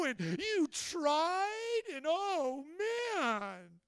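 mock excuse. Pastor mimics excusing congregant.

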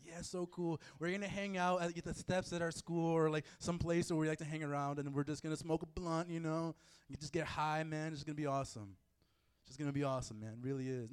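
a hint of a mellow stoner; lightly voiced stoner. Preacher playing a kid smoking a blunt, lightly mellow. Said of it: "you're gonna smoke a blunt or something".

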